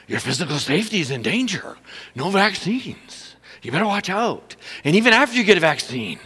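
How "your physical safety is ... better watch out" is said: mock news scare voice. Mocking fearful news media.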